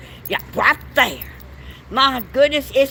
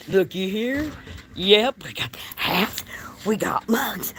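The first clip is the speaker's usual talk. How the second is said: whisper. Real, not acted. Showing merchandise on camera.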